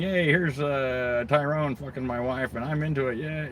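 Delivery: mocking the cuck guy's forced enthusiasm. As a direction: lampoon a man pretending he's happy.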